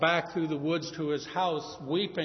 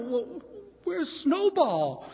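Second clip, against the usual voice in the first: put-on pleading children; 9 semitones higher, much slower than usual. Children begging father to search the rich man's house, high and eager. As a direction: beg Daddy to go look.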